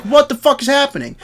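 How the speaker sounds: high, loud mock outburst; exasperated yell. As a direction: throw up your hands and yell it. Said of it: "So you're like".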